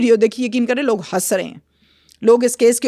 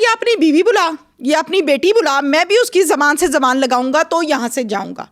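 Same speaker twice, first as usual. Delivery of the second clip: retold angry outburst; 4 semitones higher than usual. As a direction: voice the husband's rage, lightly and not full force. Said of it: "اب غصے میں آ کے وہ یہ سب بول رہا ہے". (غصے میں شوہر کی ہلکی سی نقل)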